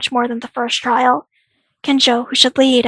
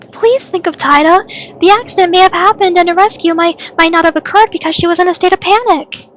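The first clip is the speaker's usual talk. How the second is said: higher, urgent appeal; earnest pleading; 4 semitones higher than usual. Acted. Begging the group to understand Taira's panic, pleading. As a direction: plead the friend's case.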